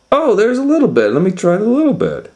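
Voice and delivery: high, fast and loud with glee; excited. Acted. Girl in the story spotting the little bed, fast and gleeful. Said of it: "So she said".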